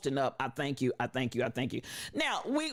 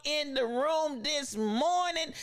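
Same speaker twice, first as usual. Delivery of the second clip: delighted surprise; 8 semitones higher, slower than usual. Real, not acted. Spots a friend joining the stream.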